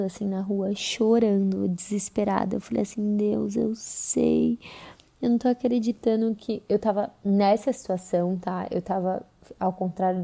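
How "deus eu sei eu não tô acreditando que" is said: desperate whispered prayer. Retold or imitated. Desperate prayer to God while crying.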